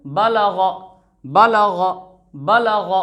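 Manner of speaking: बलग in three short syllables; crisp, quick बलग; short vowels, read quickly. Shown as a demonstration. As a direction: say बलग briskly without stretching. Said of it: "इसका सही तरीका".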